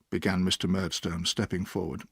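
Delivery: ordinary delivery, nothing marked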